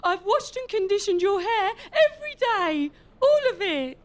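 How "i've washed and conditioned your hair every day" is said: crying while begging; tearful pleading. Acted. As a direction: sob through the plea. Traitor pleads with the king.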